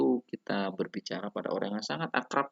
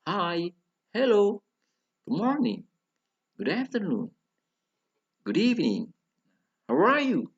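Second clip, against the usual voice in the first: "Hi", "hello", "good morning" and each greeting pitched high with exaggerated peaks; intonation drill; 12 semitones higher, 6 dB louder than usual. Shown as a demonstration. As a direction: recite each greeting high, pausing after each for learners. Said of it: "Jadi saya ulangi".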